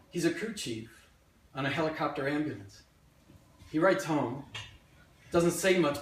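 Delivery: measured memoir monologue, deliberate pauses; stage storytelling. Acted. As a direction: tell a wartime family story to an audience. Performs a written memoir monologue.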